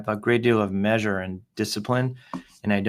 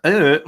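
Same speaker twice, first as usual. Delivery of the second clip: loud, high mock-foreign "uh"; short comic grunt in a put-on accent; punchy nonsense syllable, higher and louder; 6 semitones higher, 9 dB louder than usual. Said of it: "I think that's a pretty good accent".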